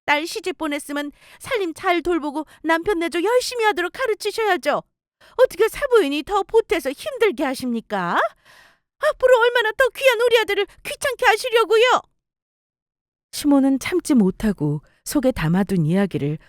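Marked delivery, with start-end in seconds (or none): 0.0-12.0 lightly voiced mother-in-law, scolding and indignant; haughty mother-in-law. Mother-in-law lecturing her son's mother-in-law, lightly indignant. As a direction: press the in-law with smug reproach.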